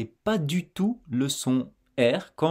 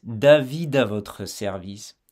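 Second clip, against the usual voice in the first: slow linked phrasing; 2 semitones lower than usual. Shown as a demonstration.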